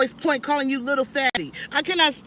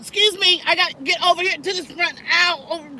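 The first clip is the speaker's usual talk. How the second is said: excited rush; 7 semitones higher, 7 dB louder than usual. Retold or imitated. Rushing up front when moved.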